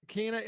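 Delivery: Kene said as KEE-nay; trying out a pronunciation. Shown as a demonstration. Host repeating the player's name for his co-host, Kene as KEE-nay. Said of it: "several different people pronounce it different ways".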